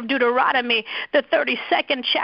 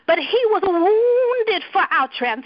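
tearful cry; 5 semitones higher than usual. Real, not acted. Preacher declaring the healing verse through tears. Impassioned scripture, crying.

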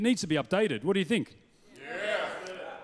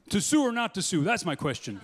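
mock American accent reciting Shakespeare; Shakespeare parody in an American accent. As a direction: play the Bard as an American. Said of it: "why can't there be an American Shakespeare".

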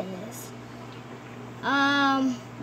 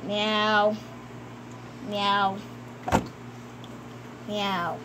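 low, soft pretend meow; cat's meow; 9 semitones lower, 8 dB quieter, much slower than usual. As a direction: meow softly as a toy cat. Plays the cat.

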